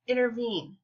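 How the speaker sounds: "intervene" with the weight on "vene"; stress on last syllable. Shown as a demonstration. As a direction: say "intervene" as two light syllables, then a strong one. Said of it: "the last syllable of that word is stressed".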